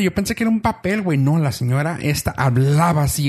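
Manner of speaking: ordinary talk, nothing marked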